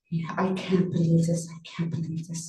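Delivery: hushed, near-whispered disbelief; mild imitation of a crying man whispering; retold crying. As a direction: softly echo a weeping man. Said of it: "He kept saying that he was crying".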